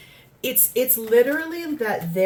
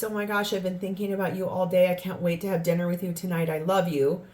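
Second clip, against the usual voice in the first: sweet text; faster than usual. Retold or imitated. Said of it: "really sweet text".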